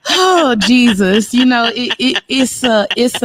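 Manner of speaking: slow, crying oh Jesus; overcome, voice cracking; real tears breaking through; emotional cry. Real, not acted. Overcome while sharing.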